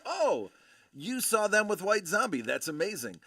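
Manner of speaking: high, loud gush that settles at the end; imitating an excited fellow fan; retold amazement. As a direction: act out her thrilled, impressed echo. Her amazed echo of his remark.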